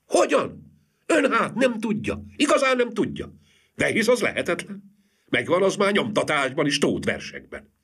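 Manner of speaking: high, amazed woman's voice; high astonished wife, hands clapped; astonished exclamation. A narrator's reading. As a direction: gasp it out in disbelief. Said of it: "Sliminszkiné összecsapta a kezeit".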